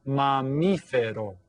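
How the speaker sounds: "mamífero" slowly in four beats; syllable by syllable. Shown as a demonstration. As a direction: count out ma-MEE-fe-ro for "mamífero". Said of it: "by clapping out and counting".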